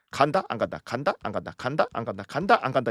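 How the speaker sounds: quick see-saw between up and down; mock flip-flopping. Retelling months of transfer rumours to exasperated fans, mock flip-flopping.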